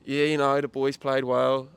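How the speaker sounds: slow, put-on Birmingham accent, as the player; a shaky Brummie accent, slowly. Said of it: "Is that supposed to be a Birmingham accent?".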